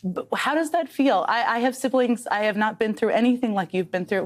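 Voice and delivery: real welling emotion, voice pushed high; getting emotional. Real, not acted. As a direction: fight back emotion while asking gently. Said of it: "gonna get emotional talking about this".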